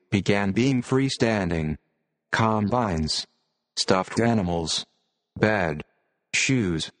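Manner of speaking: computer-generated reading voice. Real, not acted. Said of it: "audio using a computer-generated voice".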